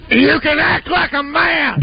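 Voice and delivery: Godfather voice. Retold or imitated. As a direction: Brando as the Godfather. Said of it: "I'll go".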